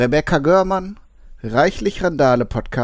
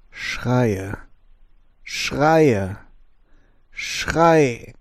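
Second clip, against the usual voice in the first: building cries; 2 semitones lower, much slower than usual. Acted. Haiku of screams from the rubble.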